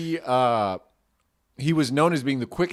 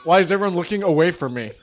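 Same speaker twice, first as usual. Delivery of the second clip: acted patient, legless; 4 semitones higher, 6 dB louder than usual. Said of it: "the guy with no leg was like".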